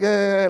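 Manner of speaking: drawn-out nervous "uh"; nervous stammer. Retold or imitated. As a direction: imitate freezing up before a crowd. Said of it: "I could not speak in public".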